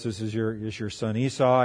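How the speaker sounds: soft, slightly low mock impersonation. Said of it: "says in a very low voice".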